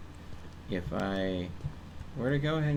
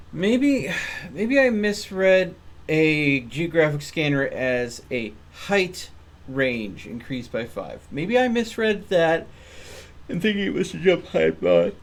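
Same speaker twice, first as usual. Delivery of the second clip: louder and higher, slow, exasperated at his own mistake; frustrated outburst; 5 semitones higher, 6 dB louder, slower than usual. Real, not acted. Player berating himself over a misread skill, loud and exasperated. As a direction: groan it out, kicking yourself.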